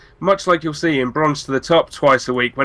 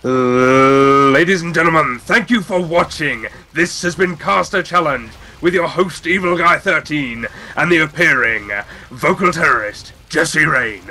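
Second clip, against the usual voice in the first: wrestler voice. Pretend. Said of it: "in a professional wrestler voice".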